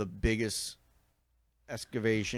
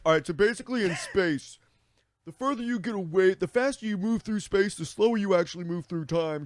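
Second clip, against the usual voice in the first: explaining slowly; 10 semitones higher, 6 dB louder than usual. Retold or imitated. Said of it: "pause and be like".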